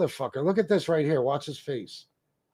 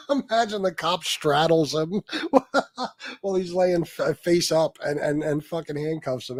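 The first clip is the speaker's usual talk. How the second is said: laughing at the arrest footage; laughing while talking. Real, not acted. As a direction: talk through real laughter.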